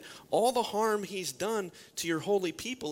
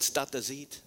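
mock Italian. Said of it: "in Italian".

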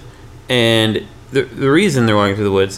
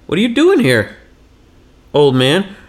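put-on questioning kids; 5 semitones higher than usual. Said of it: "but they're like".

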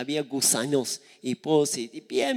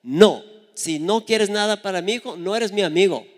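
louder, higher indignant retort; fierce daughter; 5 semitones higher, 7 dB louder than usual. Retold or imitated. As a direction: stand up for your child, loud. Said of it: "como es muy brava". (hija brava, indignada y fuerte)

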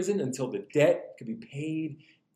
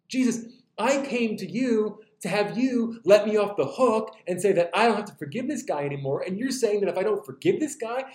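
mock indignation, pitched higher; indignant protest; 6 semitones higher than usual. Peter protesting to Jesus that it isn't fair, mock indignant. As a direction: protest in rising disbelief. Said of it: "Peter would be like".

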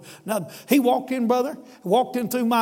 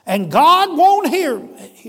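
higher, louder, slow, voice straining with grief; choked-up plea; 6 semitones higher, 8 dB louder, slower than usual. Retold or imitated. A despairing father tells the pastor God won't hear him, near tears. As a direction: plead as if about to break down. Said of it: "his old chin started quivering".

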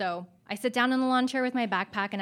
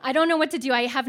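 laughing; 2 semitones higher, 5 dB louder than usual. Real, not acted. Telling about crying in crisis.

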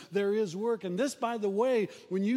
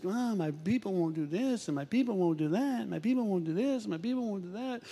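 mock whine with swooping, rising phrase ends; whining.

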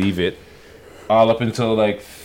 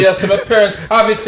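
mock Jamaican accent, pitched up; fake Jamaican accent; 9 semitones higher than usual. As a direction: tease him with a put-on Jamaican accent. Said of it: "his fake Jamaican accent".

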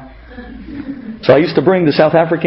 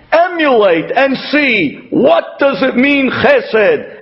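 Abraham voiced; 6 semitones higher than usual. Abraham's imagined speech, voiced.

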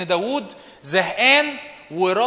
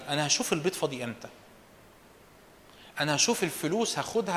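a lightly voiced scheming inner monologue; 5 dB quieter than usual. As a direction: mutter the plan to yourself. Voicing a lustful schemer's thoughts.

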